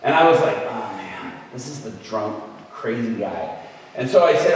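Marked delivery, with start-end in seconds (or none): 0.6-3.6 low, soft retold dismay; dismayed reluctance. Minister asked to pray for the drunk, dismayed and reluctant. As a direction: sink into it, as if groaning inwardly.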